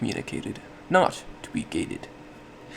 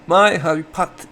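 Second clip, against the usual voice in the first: MY and HYPOT punched high and loud; overdone loud, slow stress on "My hypot-"; exaggerated emphasis; 7 semitones higher, 10 dB louder, slower than usual. Shown as a demonstration. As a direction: drag out and hammer each word, MY, HYPOT. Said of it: "I put emphasis on each of the words".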